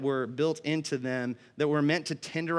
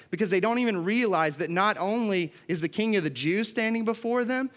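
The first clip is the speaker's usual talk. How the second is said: ordinary talk, nothing marked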